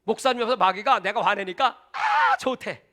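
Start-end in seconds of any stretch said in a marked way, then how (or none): 1.9-2.8 very high squeaky devil voice; gleeful devil. Retold or imitated. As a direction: squeal like a delighted imp. Devil gloating beside pastor.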